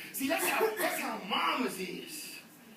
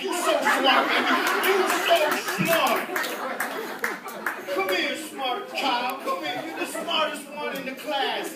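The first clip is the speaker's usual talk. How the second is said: louder, gushing mother; doting mama; 3 semitones higher, 5 dB louder than usual. Retold or imitated. A mother praising her child, loud gushing. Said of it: "you be like".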